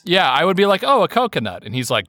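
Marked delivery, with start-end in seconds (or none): 0.9-1.6 surprise ghost voice. Retold or imitated. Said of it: "your surprise ghost voice".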